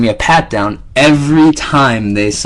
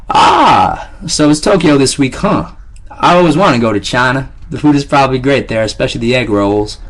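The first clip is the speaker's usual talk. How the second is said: taunting guard; 2 semitones higher than usual. Acted.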